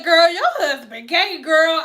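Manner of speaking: blurting the news to her friend; excited girl. Retold or imitated. A friend loudly telling a client her husband is gay, excited. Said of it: "She said".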